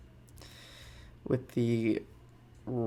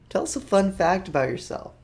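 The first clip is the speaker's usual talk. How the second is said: mock quiz voice; 6 semitones higher than usual. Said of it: "the dreaded question".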